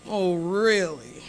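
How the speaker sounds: slow, sarcastic oh really. Retold or imitated. Old lady at the counter, sarcastic and unconvinced. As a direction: doubt it with a drawn-out sneer. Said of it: "that sarcastic".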